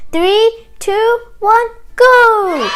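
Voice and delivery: loud, high countdown to the start; race countdown. Acted. Animals start the race, loud excited countdown. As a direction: count them off and launch the race. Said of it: "all the animals surrounded those two people and said".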